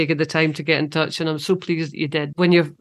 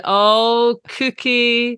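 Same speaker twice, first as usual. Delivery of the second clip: lightly voiced, high, fond cry of the nickname; fond friend; 5 semitones higher, 3 dB louder, much slower than usual. Friend on the phone hearing Susan's name, a light fond coo. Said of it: "And she said".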